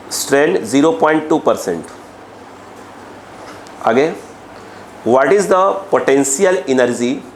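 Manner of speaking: slow, measured classroom dictation. Real, not acted. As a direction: read it out slowly for note-takers, phrase by phrase. Teacher dictates a question to the class. (धीमे-धीमे बोलकर लिखवाना)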